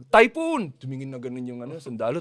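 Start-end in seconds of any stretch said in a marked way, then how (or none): 0.1-0.7 loud high cry of typhoon; sudden loud alarm shout; shouted warning. Retold or imitated. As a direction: yell it as a false alarm. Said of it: "sumigaw si F B R".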